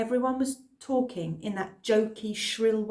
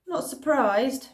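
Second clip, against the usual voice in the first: slow knowing woman; 5 semitones higher, 6 dB louder, slower than usual. Acted. Missus Moore voiced.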